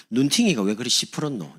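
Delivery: mock Gyeongsang question; Gyeongsang dialect. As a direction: ask it like a Gyeongsang local. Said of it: "경상도". (경상도 사투리로 묻듯)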